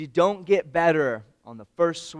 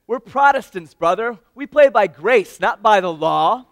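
raised, higher preacher's call, laughing at the end; jovial pastor; 7 semitones higher, 13 dB louder than usual. Retold or imitated. Pastor calls from the mound to the boy who struck out, booming. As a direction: proclaim it like a cheerful sermon. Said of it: "he said".

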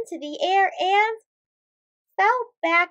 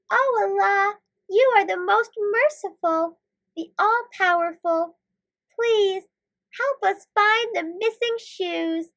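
earnest prayer; 4 semitones higher than usual. Acted. Heroes make dua.

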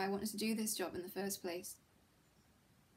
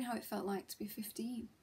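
whispering; 5 dB quieter than usual. Acted. Wistful memory, voice drops.

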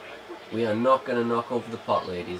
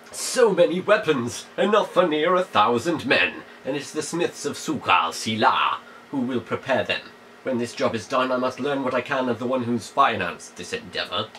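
louder, declaiming letter read with grand emphasis; dramatic reading; 4 dB louder than usual. Shown as a demonstration. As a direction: read it out like a stage villain's letter. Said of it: "Let's read it dramatically".

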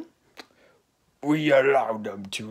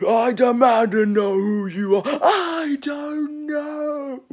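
demanding shout; 10 semitones higher, 6 dB louder, much slower than usual. Acted. Confrontation over identity.

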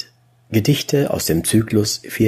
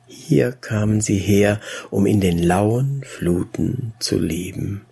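measured, wistful verse reading; restrained poetry reading; poem recitation. A narrator's reading. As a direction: recite in short, even phrases with lingering pauses. Recites chorus of nymphs.

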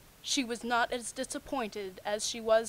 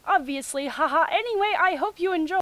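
mock excitement; 8 semitones higher, 9 dB louder than usual. Mock-excited reading of fan note.

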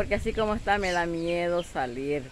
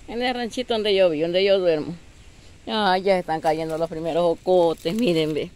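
louder, urgent dismay as the fruit falls; alarmed exclaiming; 4 dB louder than usual. Real, not acted. Woman showing her hut as jocotes fall, alarmed and louder. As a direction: cry out in real alarm at the damage. Jocotes falling in the strong wind.

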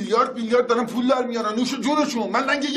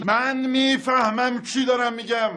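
slow deliberate; much slower than usual. Acted. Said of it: "تو الان عصبانی هستی".

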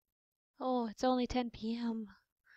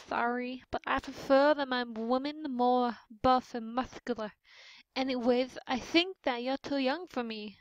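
fancy character voice. Acted. Player improvising Mister Toko turning down a date, lightly fancy. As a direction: play him as a touch fancy. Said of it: "I'm just gonna be fancy".

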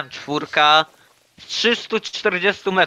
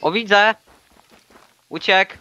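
much higher and louder, a sudden burst; excited hunting shout; 8 semitones higher, 4 dB louder than usual. Real, not acted. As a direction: yell it out as the hare bolts. Spots the fleeing hare. (podekscytowany okrzyk, wysoko i głośno)

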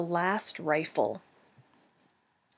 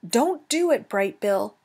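urgent warning; 3 semitones higher, 5 dB louder than usual. Acted. Flock warning their leader off a dangerous plan, urgently. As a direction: cry out a warning. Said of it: "The flock tried to stop their leader".

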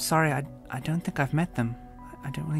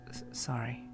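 whispered sorry; 6 dB quieter than usual. Acted. Timid girl whispers apology.

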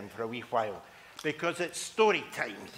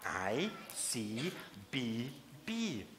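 softer drowsy mumble; half-asleep answer from bed; sleepy mum; 2 semitones lower, 5 dB quieter, much slower than usual. Acted.

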